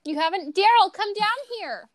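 lightly acted mom, rising to a high call; mock disapproving mom. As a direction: play a mom sizing up the boyfriend, then calling out. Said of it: "Your mom is meeting your boyfriend".

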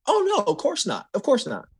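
high, put-on sweet lady voice; high mock-innocent voice of the drive-thru lady; innocent denial. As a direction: play the lady feigning innocence. Lady denying moving the sign.

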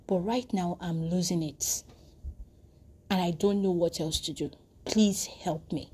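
softly voiced, earnest prayer; earnest plea. Young man praying to God for help, a quiet earnest plea. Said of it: "he prayed that earnestly".

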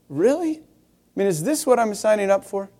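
a high, doubtful "Really?", easing down after; mildly incredulous. Retold or imitated. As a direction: act out sceptical second thoughts. Acts out doubt at church's answer.

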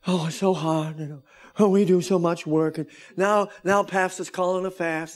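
lightly mocking a whiny churchgoer; a hint of a moaning believer; groaning complainer. Pastor mocks his congregation's complaining, with light mock groaning. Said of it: "we groan and moan and say".

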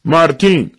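high, loud roll-call shout; acted announcer's call; calling a name. A narrator's reading. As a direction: call the next name out to a crowd. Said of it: "اسم بعدی را خواند".

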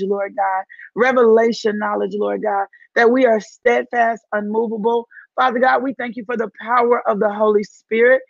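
fervent spoken prayer with rising praise lines. Real, not acted. Preacher praying over her online congregation, fervent. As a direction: pray it out over the listeners. Opens live stream in prayer.

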